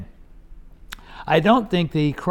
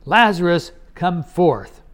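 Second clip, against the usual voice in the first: slightly louder, emphatic quoted command; quoted loud call; 4 dB louder, slower than usual. Retold or imitated. Preacher quotes Jesus calling Lazarus from the tomb, mildly raised voice. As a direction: call it out firmly, short of a shout. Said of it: "he said with a loud voice".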